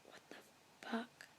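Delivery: stunned soft whisper; real whisper. Real, not acted. Hearing the boom again live, a shocked whisper. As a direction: breathe it out in shock. Booms return live at night.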